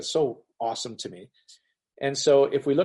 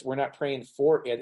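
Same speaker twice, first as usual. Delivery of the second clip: slow, with "for" leaned on; stress on "for"; 2 semitones higher than usual. Shown as a demonstration. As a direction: repeat deliberately, emphasising "for". Repeats the contrast on for.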